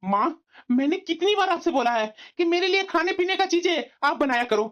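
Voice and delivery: heated complaint to mother; angry yelling. Acted. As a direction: protest hotly, pitch rising. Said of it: "जो इतना तुम चिल्ला रहा है?".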